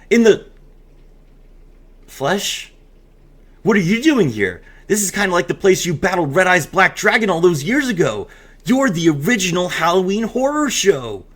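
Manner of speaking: storyteller reading a spooky promo aloud; hammed-up narrator of a Halloween story; dramatic reading. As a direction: read it like a spooky campfire tale.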